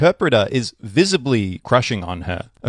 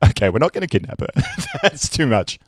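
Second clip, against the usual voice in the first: laughing boss; 3 semitones higher than usual. Retold or imitated. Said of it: "the guy running this whole thing is like".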